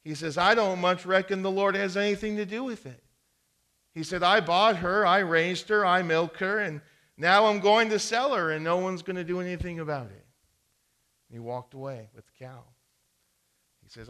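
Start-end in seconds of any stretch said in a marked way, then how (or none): 0.4-10.3 louder, higher indignant rant; defiant, building fast; a little angry. Acted. Neighbor angrily telling the farmer nobody controls his sale. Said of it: "feeling a little angry".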